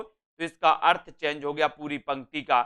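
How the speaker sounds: usual speaking voice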